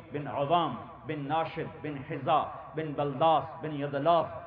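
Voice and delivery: names of the lineage chanted in an even flowing run, in a slow steady rhythm; rhythmic lineage recitation. Acted. Preacher reciting the lineage to the gathering, in a rhythmic chant. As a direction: intone the chain of ancestors in one breath-like flow.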